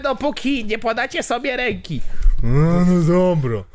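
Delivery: strict teacher. Acted. Teacher demands handshake.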